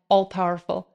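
solemn weight on "all-powerful"; emphasized word. Acted. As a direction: land hard on "all-powerful" to close the verse. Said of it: "I want to emphasize the word all-powerful".

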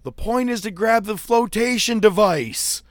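high, loud mocking yell. Fan yelling a joke at Christian, high and loud. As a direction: shout the joke down to the ring. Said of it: "And I yell out".

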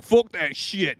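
bro voice. Retold or imitated. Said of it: "he's like".

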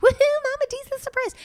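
high, loud sarcastic fanfare; mock excited announcement. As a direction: announce it like a fake party reveal.

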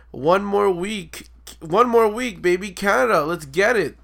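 loud, drawn-out hype shout. Retold or imitated. Coworker hyping his trip to Canada, shouting. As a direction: yell it across the lobby like a countdown. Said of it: "Shouted it in the lobby".

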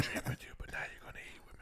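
ASMR whisper. Pretend. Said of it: "ASMR bit".

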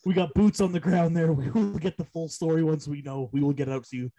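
mock announcer cutting in; hammed-up breaking news read; news bulletin voice.

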